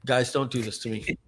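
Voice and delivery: mock plea, measured and deliberate; lightly dramatised begging, with weighty pauses; pleading with partners. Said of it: "I'll do my impression. I was like".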